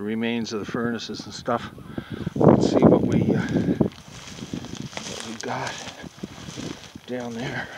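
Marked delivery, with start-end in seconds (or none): 2.3-7.7 huffing and puffing while walking; out of breath, panting between words. Real, not acted. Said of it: "Sorry about all the huffing and puffing".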